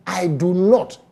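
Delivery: "I do not" slowed for emphasis; emphatic stress. Real, not acted. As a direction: give each word of "I do not" deliberate weight. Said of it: "I will say it with emphasis".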